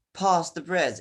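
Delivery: British accent, "Past" said with a long open a like "pahst". Shown as a demonstration. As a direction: give "Past the bridge" the broad British a in "Past". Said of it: "in British accent".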